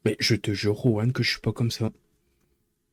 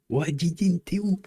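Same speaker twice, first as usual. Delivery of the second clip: high, climbing playful call; singsong searching call, pitched up; mock calling out; 8 semitones higher than usual. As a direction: call through the house in a silly high voice.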